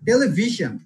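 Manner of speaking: টেলিভিশন with ভি punched, then falling; stress on VI. Shown as a demonstration. Teacher checking students understood, টেলিভিশন stressed on ভি. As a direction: put the weight on ভি in টেলিভিশন. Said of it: "emphasize on".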